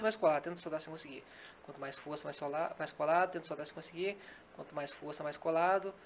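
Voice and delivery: steady, rhythmic suggestion voice; hypnotic induction. Acted. Hypnotist guiding a volunteer, steady hypnotic suggestion. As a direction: lull the subject, repeating each command.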